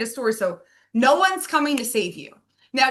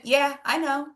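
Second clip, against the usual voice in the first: casual shrug; 3 semitones higher than usual. Retold or imitated. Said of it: "Like, just like that".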